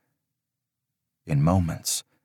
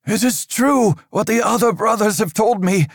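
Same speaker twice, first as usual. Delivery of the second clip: a higher, louder stern priest's voice, measured and grave; stern old priest; 4 dB louder than usual. Acted. Father Riker warning Aldous of dark times, stern and raised. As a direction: lecture the boy on dark times like an anxious cleric. Frightened priest backs away.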